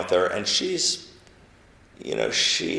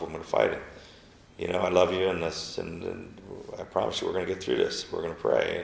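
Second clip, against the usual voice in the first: softly reassuring; 4 dB quieter than usual. Retold or imitated. Reassuring wife after cancer news.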